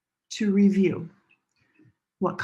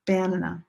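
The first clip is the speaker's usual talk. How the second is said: "Banana" with the first syllable stressed, BAN-ana; wrong stress; faster than usual. Shown as a demonstration. Teacher testing if it is English, "Banana" stressed on BAN. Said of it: "Is that a word in English?".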